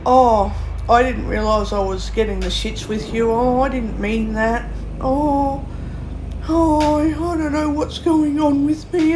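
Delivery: rising into a high, whiny put-on voice; mock innocent whine. Mocking the person who treats her badly, in a whiny put-on voice. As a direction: sarcastically imitate the other person's fake confusion.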